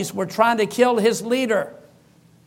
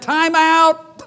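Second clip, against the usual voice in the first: bold time-out call; 7 semitones higher, 4 dB louder than usual. Retold or imitated. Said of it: "I said".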